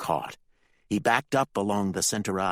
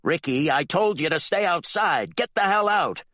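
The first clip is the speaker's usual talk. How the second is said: higher, louder furious father; angry yell; 11 semitones higher, 6 dB louder than usual. Acted. The Reverend yells at Ricky, furious. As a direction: throw him out.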